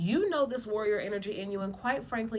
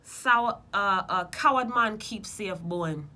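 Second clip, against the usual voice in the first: Jamaican proverb; 5 dB louder, slower than usual. Retold or imitated. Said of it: "In Jamaica, the mother say".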